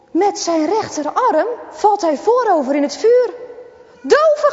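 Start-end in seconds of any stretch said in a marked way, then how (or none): 4.0-4.5 high panicked scream at his friend. Acted. Rick screams as his friend falls into the fire. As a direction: shriek it out in alarm. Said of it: "gilt Rick".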